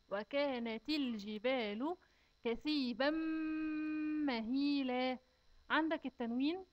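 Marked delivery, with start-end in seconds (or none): 0.1-5.2 slow, measured tajweed chant; measured recitation of the verse; slow Quran recitation. Shown as a demonstration. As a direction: recite it carefully for the children.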